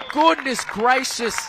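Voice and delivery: slow, loud, high, savoring every word; drawn-out goal exclamation. Acted. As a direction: stretch it out in triumph. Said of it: "I would've went a little bit more".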